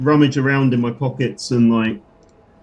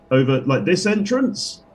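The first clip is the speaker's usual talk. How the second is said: character voice; 2 semitones higher than usual. Acted. Player character voice.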